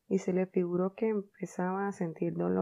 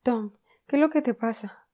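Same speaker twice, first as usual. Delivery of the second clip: higher, louder, out of breath; breathless; 6 semitones higher, 8 dB louder than usual. Acted. Aunt Polly arriving breathless at Tom's bed, out of breath. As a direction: gasp it out after the stairs. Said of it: "dijo sin aliento".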